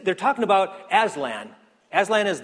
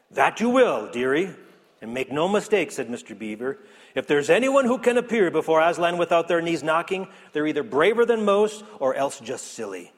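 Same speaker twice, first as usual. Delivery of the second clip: lightly voiced beaver, knowing and a bit louder; storybook beaver; 4 dB louder than usual. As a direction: warn her kindly as the old beaver.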